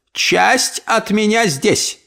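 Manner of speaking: put-on slow, high, declaring old aunt; proclaiming. Aunt announces part of her is here, slow and high. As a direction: announce it grandly. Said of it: "объявила тётушка Тильди".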